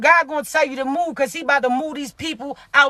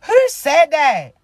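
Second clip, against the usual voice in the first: slow, louder put-on Porsche voice; 4 dB louder, slower than usual. Shown as a demonstration. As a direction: drag it out in a mock Porsche voice. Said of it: "in my Porsche voice?".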